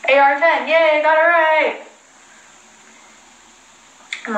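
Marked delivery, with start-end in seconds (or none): 0.1-1.8 higher, happy little cheer; light self-congratulating yay; pleased cheer. Real, not acted. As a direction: celebrate a small win in a raised pitch. Cheers at getting the name right.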